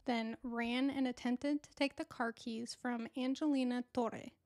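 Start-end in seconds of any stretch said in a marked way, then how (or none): 3.2-4.3 name said with an amateur Spanish accent; horrible Spanish accent. Real, not acted. Vlogger excusing her attempt at a victim's name, clumsy Spanish accent. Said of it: "excuse my horrible Spanish accent".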